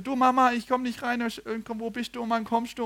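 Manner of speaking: put-on high little boy calling his mum; boy on voice message. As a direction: plead with mum like a locked-out kid. Boy's voice message to mom.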